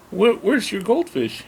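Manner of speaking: put-on high, slow question to a child; neighbor's question. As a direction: play the neighbor humoring a little girl. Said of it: "He goes".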